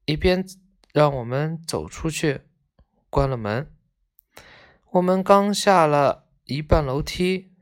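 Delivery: measured, expressive storybook reading; story narration. A narrator's reading. Reading a tale of schoolboys visiting a sick friend, expressive narration. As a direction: read the tale aloud with feeling.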